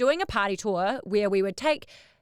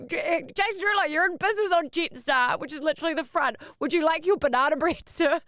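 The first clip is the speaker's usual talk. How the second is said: higher, bright mock service voice; lightly voiced cabin crew; mock flight attendant; 6 semitones higher than usual. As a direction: play the fawning attendant. Mock attendant serving a singer.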